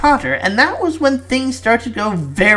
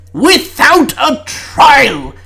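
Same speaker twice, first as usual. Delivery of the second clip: outrage dragged out slowly; indignant; 5 semitones higher, much slower than usual. Acted. Prime Minister indignant exclamation.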